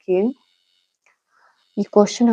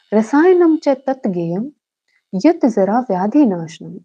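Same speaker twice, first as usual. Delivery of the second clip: shlok recitation; 4 dB louder, slower than usual. Shown as a demonstration. Teacher reads out Sharangdhar's shlok for students, slow lilting recitation. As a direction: recite it slowly as measured Sanskrit verse.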